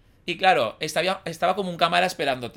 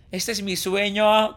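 loud, slow, hammed-up Valencian accent; 5 semitones higher, 5 dB louder, slower than usual. Re-enacting his scripted TV line, hammed-up Valencian accent. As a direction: declare it grandly in a broad Valencian accent. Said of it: "con acento valenciano".

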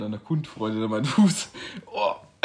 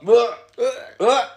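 loud disgusted groan; 11 semitones higher, 8 dB louder than usual. Real, not acted. Disgusted reaction after a sip.

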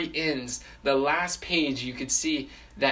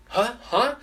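high, startled double take; acted alarm in a raised voice; startled reaction; 7 semitones higher, 3 dB louder than usual. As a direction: jump at the sudden call, pitched up. Puppet startled by the booming call.

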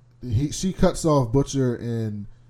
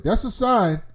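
excited reaction; 9 semitones higher, 4 dB louder than usual. Retold or imitated. Reacting to threat.

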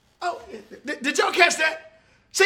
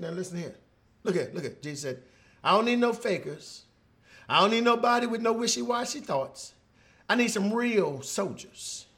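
low firm command; 3 semitones lower, 7 dB quieter than usual. Acted. Jesus speaks low, commanding.

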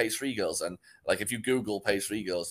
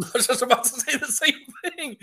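higher, laughing through the words; 5 dB louder than usual. Real, not acted. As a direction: laugh as you finish his thought. Laughs mid-sentence.

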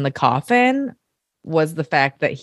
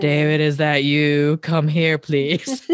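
demonic voice; slower than usual. Retold or imitated. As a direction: call him in like a demon. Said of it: "like, demonic voice".

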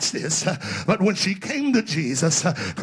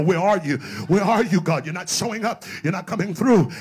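louder, insistent demand to God; upset with God; 5 dB louder than usual. Acted. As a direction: press God for an answer, mildly indignant. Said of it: "Have you ever been upset with God?".

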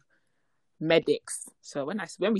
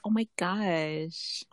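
mock scared; 3 dB quieter, much slower than usual. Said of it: "Like, I'm scared".

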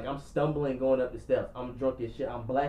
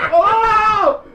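loud high holler, half laughing; hammed-up startled scream; shocked yell; 14 dB louder than usual. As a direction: cry out in comic alarm. Retold shock at being violated.

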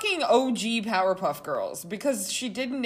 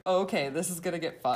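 laughing aside; 2 semitones lower than usual. Real, not acted. Laughing while retelling reaction.

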